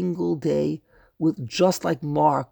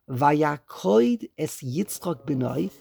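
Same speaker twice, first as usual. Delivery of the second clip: slow verse reading; much slower than usual. Shown as a demonstration. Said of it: "and it says now".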